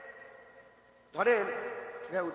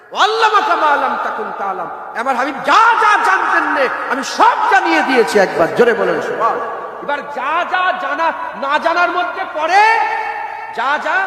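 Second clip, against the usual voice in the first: loud, raised sermon voice reciting hadith; fiery preaching; 6 semitones higher, 10 dB louder than usual. Acted. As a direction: preach it at full force to the crowd. Preacher recites verse loudly.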